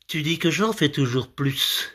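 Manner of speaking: lightly declaimed verse with long pauses; mock love poem. Comedian interpreting a man's love poem, mock-earnest recital.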